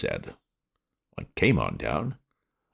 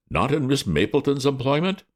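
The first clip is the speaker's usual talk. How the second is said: gruff policeman; 10 semitones higher than usual. A narrator's reading. Policeman comes back strongly.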